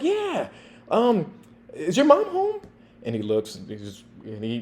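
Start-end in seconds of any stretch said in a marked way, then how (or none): 0.0-2.6 knowing officer. Retold or imitated. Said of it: "I'm like".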